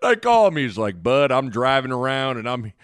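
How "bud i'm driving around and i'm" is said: low, slurred coach grumble; Coach Altman. Retold or imitated. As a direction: imitate a low-voiced coach grousing. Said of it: "do the impression".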